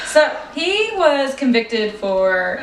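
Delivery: slow monotone robot voice. Real, not acted. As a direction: read it like a robot. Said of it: "I'm talking like a robot".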